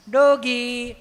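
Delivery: loud, slow, sing-song call to a puppy; cooing at a dog. Retold or imitated. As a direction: coax the doggy out, drawn out. City women calling the dog. (ગલુડિયાને લાડથી લાંબો સાદ)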